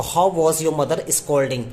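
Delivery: slow, word-by-word dictation. Shown as a demonstration. Teacher dictating the sentence to students, slowly. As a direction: spell it out word by word for the class. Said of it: "dictating the sentence".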